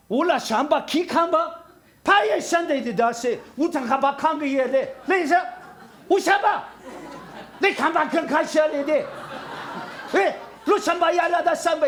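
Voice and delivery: high, slow tongues with laughter; tongues demo. Shown as a demonstration. Pastor showing how he'd preach in tongues to an African. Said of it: "방언으로 복음을 전한다고 상상".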